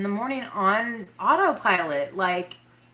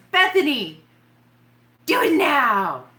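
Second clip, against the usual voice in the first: mean teacher voice; 7 semitones higher, 6 dB louder than usual. Pretend. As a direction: bark the order like a strict schoolteacher. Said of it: "I'll say it in my mean teacher voice".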